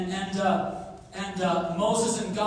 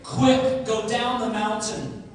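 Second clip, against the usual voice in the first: voice of God; 3 semitones higher, 6 dB louder than usual. Acted. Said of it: "God says".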